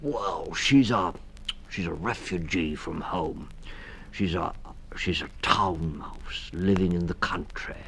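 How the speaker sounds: put-on stammering old toad voice, kind; a dithering, kindly toad; kindly Mister Toad.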